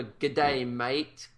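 brief attempted Australian greeting; Aussie accent. Shown as a demonstration. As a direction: offer a tentative Aussie accent. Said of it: "What if I just gave a".

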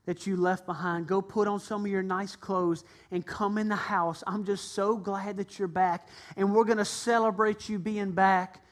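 father welcomes his son home; loving father. Acted. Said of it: "He said".

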